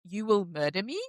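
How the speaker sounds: lightly attempted Russian accent, voice lifting at the end. Retelling Ilya's line at the door, in a mild Russian accent. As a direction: imitate a worried Russian, lightly. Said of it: "like, Russian accent".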